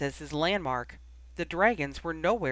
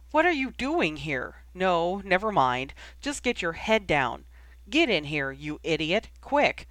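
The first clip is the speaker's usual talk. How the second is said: urgent calling; 3 dB louder than usual. Acted. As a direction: hurry him in, half shouting. Urging brother into the trench.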